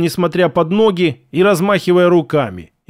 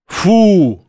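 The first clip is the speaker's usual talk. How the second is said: relieved exhale; 2 semitones higher, 4 dB louder than usual. Acted. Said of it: "выдохнул Арсений".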